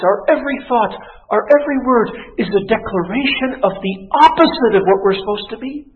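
high, driving pulpit delivery; fervent preacher pressing the charge; impassioned preaching. Acted. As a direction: build it phrase on phrase with hard emphasis. Preacher at full force.

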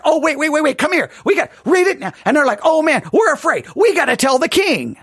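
high-pitched, acted urgency; urgent alarm. Hearers calling others to the king, urgently. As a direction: play agitated hearers rushing to report.

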